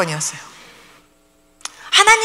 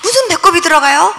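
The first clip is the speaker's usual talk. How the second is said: asked with a rising, doubting lilt; mother can't believe the navel went in, rising disbelief; incredulous question; 3 semitones higher than usual. Retold or imitated. 무슨 배꼽이 들어가요 said rising in disbelief. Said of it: "그랬더니요, 그분이요".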